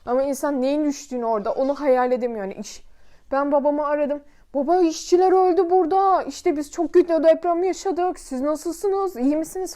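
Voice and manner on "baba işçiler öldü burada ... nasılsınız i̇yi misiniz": tearful. Retold or imitated. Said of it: "iki gözüm iki çeşme ağlıyor".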